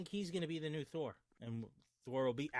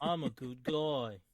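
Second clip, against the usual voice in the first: put-on English accent; slower than usual. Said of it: "I'm doing an English accent".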